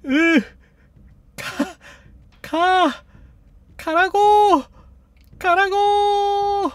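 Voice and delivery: high, straining shouts, building; exasperated yelling. Real, not acted. Player ordering a stuck robot to go, building exasperated shout. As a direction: yell it forward, stretching the last cry.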